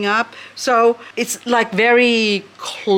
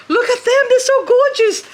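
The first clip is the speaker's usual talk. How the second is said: much higher, louder delighted squeal; excited squeal; 4 dB louder than usual. Real, not acted. Plant lover shows off her favourites, squealing higher. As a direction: gush over them like treasure.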